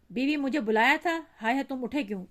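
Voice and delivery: high, loud anxious call. Acted. Wife rushing in to her sick husband, calling loudly. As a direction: call out as you hurry into the room.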